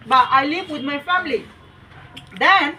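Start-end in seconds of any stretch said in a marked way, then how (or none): 0.4-1.4 slow dictation. Shown as a demonstration. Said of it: "teacher dictating a model sentence".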